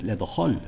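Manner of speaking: "Hull" starting with a ch as in loch; wrong H imitation. Shown as a demonstration. Teacher mimicking the error, ch-sound in "Hull". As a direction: turn the H of "Hull" into a Gaelic ch. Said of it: "something similar to the C H".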